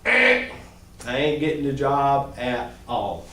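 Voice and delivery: slow, low and defeated; drooping, hopeless candidate voice; dejected mumble. Shown as a demonstration. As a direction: mumble it like a beaten man. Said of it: "Now watch this".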